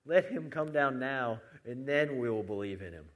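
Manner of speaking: mildly jeering dare; mocking. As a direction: throw down a retold challenge, punched at first. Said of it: "mocking him and saying".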